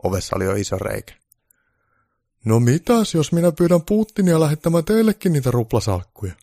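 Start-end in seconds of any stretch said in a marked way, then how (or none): 2.4-6.3 higher, louder Santa making an offer; Santa's raised voice with a sly offer; Santa suggesting. Acted. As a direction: play Santa tempting her. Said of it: "Pukki ehdotti".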